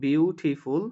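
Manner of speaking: বিউটিফুল parted into three beats, বিউ-টি-ফুল; syllable by syllable. Shown as a demonstration. Teacher repeating for students, বিউটিফুল divided into three syllables. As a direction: give each syllable of বিউটিফুল its own beat. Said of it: "তিনবারে উচ্চারণ করতেছি".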